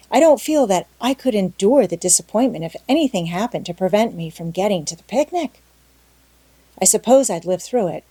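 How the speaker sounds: a hint of an eager young girl, rattling on; lightly voiced chatty girl. Anne chattering to Marilla about the picnic, breathless and eager. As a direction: let the girl's delight bubble along. Anne's chatter read in character.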